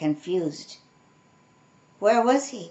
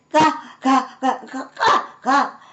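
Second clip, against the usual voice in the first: higher, louder rasping caw; rasped caws; 5 semitones higher, 6 dB louder than usual. A narrator's reading. Raven rasping as he wiggles free of the cub. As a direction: rasp each caw like a raven. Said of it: "rasped the raven".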